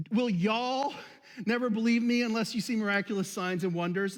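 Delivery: the Jesus line recast with a mild Southern "y'all"; Southern Delaware version. Pretend. Pastor joking to the congregation, a light mock Southern accent. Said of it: "the New Southern Delaware version".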